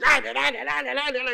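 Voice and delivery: mock yelling gibberish. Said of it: "yelling and name calling".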